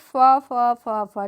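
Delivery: फ as a short "fuh", repeated separately; letter sound फ. Shown as a demonstration. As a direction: sound out फ, not the letter name "eff". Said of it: "एफ का उच्चारण फ होता है".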